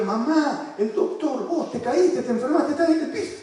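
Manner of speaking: mock alarm. Therapist plays doctor game, mom.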